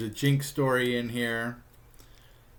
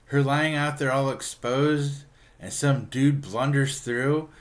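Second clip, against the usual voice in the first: louder, higher, slowed-down mock alarm; alarmed Archie; 5 semitones higher, 6 dB louder, slower than usual. Archie pictures a dude blundering through, alarmed. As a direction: act out mounting worry. Archie worries over Betty exposed.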